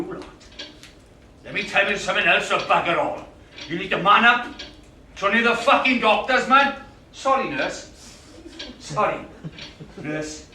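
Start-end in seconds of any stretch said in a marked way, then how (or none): 3.7-6.7 ranting. Acted. Ranting in waiting room.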